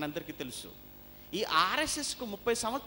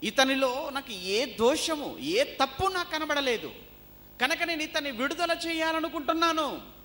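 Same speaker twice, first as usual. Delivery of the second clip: loud, high declamation; forceful preaching; 8 semitones higher, 5 dB louder than usual. Real, not acted. Preacher proclaiming Pilate's judgment of Jesus, declaimed. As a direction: proclaim the verdict in a high, ringing voice.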